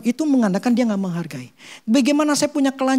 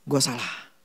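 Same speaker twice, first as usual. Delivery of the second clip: low, soft self-rebuke; muttered admission of fault; quiet admission; 8 semitones lower, 8 dB quieter, slower than usual. Retold or imitated. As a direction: murmur it as if to yourself. Businessman realizing he was wrong.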